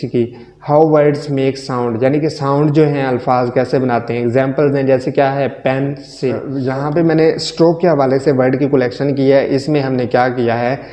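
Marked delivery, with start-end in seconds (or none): 5.5-6.4 pencil split as "पेन, से", pausing between syllables; syllable break. Shown as a demonstration. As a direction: stop after "पेन", then give "से" on its own. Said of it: "रोक लेता है".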